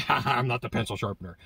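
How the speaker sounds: lightly imitated raspy voice with a chuckle; a hint of rasp, opening on a mock laugh; Tad. Salesman Tad rebuffing a customer on a sales call, imitated raspy voice. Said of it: "this kind of grasp, ra-, raspy voice".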